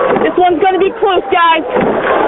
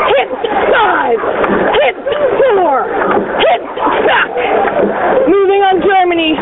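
barked hip calls, higher; rowing coxswain calls; 3 semitones higher than usual. Acted. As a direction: call each stroke on the hips.

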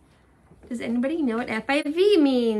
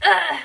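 pained groan; 6 semitones higher, 11 dB louder than usual. Real, not acted. Groan for a pang in heart.

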